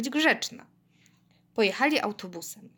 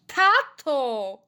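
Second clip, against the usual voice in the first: higher, urgent exclamation; appalled cry; 4 semitones higher, 4 dB louder than usual. A narrator's reading. Girl shocked by singing dad, appalled cry. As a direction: cry out to stop him.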